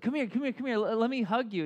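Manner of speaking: retold coaxing dad. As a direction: imitate a dad urgently offering a hug.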